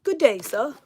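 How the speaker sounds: a first-try hint of a British accent; lightly posh British greeting, a playful attempt; tentative British accent on request. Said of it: "I've never actually tried a British accent".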